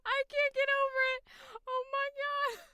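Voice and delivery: can barely speak for laughing; laughing disbelief. Real, not acted. Still laughing at the squeak.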